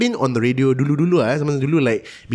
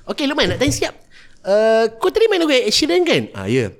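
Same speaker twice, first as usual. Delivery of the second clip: mall MC voice. Retold or imitated. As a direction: grill the kid like a cheesy mall MC. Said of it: "why they ask the question".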